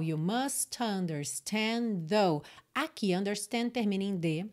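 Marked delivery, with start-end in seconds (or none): 0.0-2.4 slow linking demo. Shown as a demonstration. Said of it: "liga na próxima palavra que começa em vogal".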